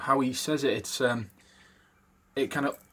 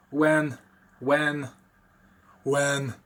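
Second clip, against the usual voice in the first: rumbling "When" from down in the chest; low Walken-style "When", rattling in the chest; deep chest rumble; 3 dB louder, much slower than usual. Shown as a demonstration. Teaching viewers the Walken rumble, demonstrating deep. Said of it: "you sort of get it rumbling down here".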